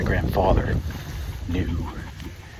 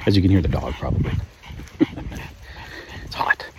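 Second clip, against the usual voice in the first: out of breath; 3 semitones lower, faster than usual. Real, not acted. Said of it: "out of breath while I'm walking".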